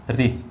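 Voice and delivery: री said as plain ri, with a short i; ri sound of ṛ. Shown as a demonstration. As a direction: spell ऋ aloud as री, like ra with a short i. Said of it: "वह री की तरह होता है". (ऋ को री की तरह बोलें)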